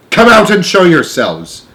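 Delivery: loud, high, drawn-out command; shouted order. A narrator's reading. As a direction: call up with police authority. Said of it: "shouted the chief of police".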